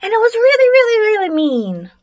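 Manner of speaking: lightly voiced gloating bully; mild bully's taunt. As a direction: stretch it out teasingly, sliding down in pitch. Bully rubs in her threat.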